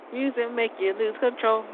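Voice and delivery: a hint of sounding white on a song line. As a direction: quote the lyric, lightly mocking your own delivery. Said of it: "I sound so white".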